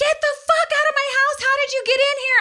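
put-on very high, frantic, freaked-out scream. Telling how paramedics got into her house, acting out her screaming at them: retelling her own screaming. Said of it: "And I'm screaming at them".

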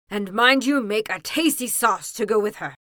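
very loud, urgent, booming ogress voice. Reading a story aloud, the queen giving orders to the cook, urgent hungry ogress voice. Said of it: "in the urgent voice a hungry ogress has".

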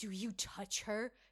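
put-on creepy voice. Retelling what a voice in a horror film asks: imitating a creepy voice. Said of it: "there's a creepy voice going".

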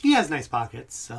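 voiced as a mouse character. Voicing a mouse looking over at two others: voicing a mouse. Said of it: "kinda looks over to Chase and Nosh and goes".

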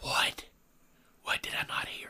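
curious, intrigued, barely audible hushed whisper. Retelling a conversation, asking back what you didn't hear, whispering. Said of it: "So now you're whispering".

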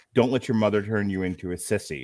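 ordinary delivery

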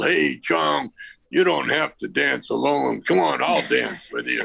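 mock-loud shout in a put-on biker voice. Retelling what a biker called out to the speaker, retelling a biker's loud taunt. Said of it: "he got real loud".

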